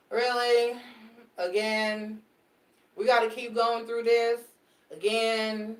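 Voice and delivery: mock exasperation, building then fading; exasperated. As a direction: sigh it out like you're sick of it. Voicing exasperated client's repeated complaint.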